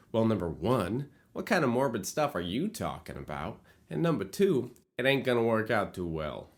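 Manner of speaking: put-on light Queens accent, a touch of New York sass. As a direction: tease the writer in a slight Queens accent. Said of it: "I don't know why I'm doing this accent".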